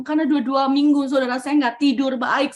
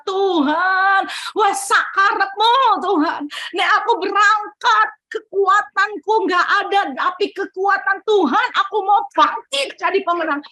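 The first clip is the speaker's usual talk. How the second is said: retold bold surrender; 5 semitones higher than usual. Acted desperate bold prayer to God.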